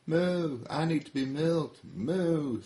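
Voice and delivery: an aching cow begging to be milked; high pleading cow; Betty the cow. Acted. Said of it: "says Maybelle's friend named Betty".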